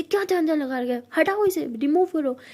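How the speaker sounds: mock furious scolding; jealous girlfriend ordering it gone; angry order. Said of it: "बहुत ज़्यादा गुस्सा कर रही होती है".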